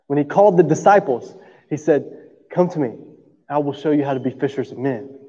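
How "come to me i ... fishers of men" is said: simple and calm. Retold or imitated. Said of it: "A simple, just like that".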